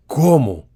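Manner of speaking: "cómo" said as a sharp asking word; cómo as a question. Shown as a demonstration. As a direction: ask "cómo" like a real question. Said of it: "es una pregunta". ("cómo" dicho como pregunta)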